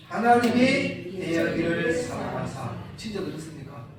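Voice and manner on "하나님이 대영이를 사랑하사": slower and louder this time; louder repeat. Shown as a demonstration. Pastor asks them to repeat it louder. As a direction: say it again with more force. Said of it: "다시 한번요".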